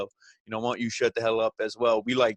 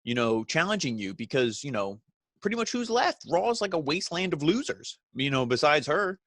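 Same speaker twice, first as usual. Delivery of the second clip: mock interviewer voice; 4 semitones higher than usual. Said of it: "And she's like".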